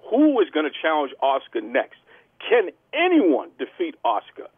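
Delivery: emphatic show-host report with punched key words; wrestling news announcer. Acted. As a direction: sell the match to the fans.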